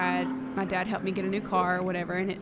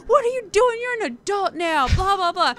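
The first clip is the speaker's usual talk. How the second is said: high, louder mock scolding mother; scolding mom; 10 semitones higher, 4 dB louder than usual. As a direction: play the fussing mom, pitched up. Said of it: "she's fussing me out".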